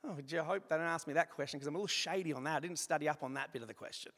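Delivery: mild hammed-up dithering; mock unsure God. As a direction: lightly play God fumbling for an answer. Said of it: "He's not up there going".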